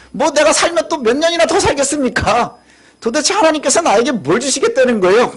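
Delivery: a mild retold protest, rising questions; arguing with God. Abraham questioning God, mildly acted argumentative complaint. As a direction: press God with doubtful questions, lightly acted. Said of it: "이렇게 따지는 거예요".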